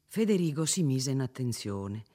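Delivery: usual speaking voice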